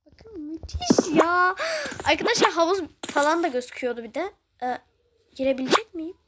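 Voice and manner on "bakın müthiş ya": slow, hushed whisper; awed whisper. Real, not acted. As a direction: whisper it in awe. Whispering in awe. (hayranlıkla, yavaş fısıltı)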